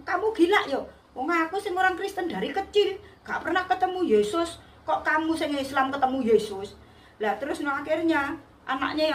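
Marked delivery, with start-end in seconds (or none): 0.0-6.7 higher-pitched indignant scolding, imitated; retold angry mother. Mother scolding the narrator for claiming to meet Jesus, retold anger. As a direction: act out the mother's indignant outburst. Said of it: "ibunya ngamuk bilang".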